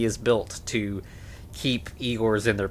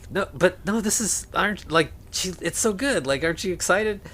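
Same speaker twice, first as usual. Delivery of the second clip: excited; 7 semitones higher than usual. Retold or imitated. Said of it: "and he's like".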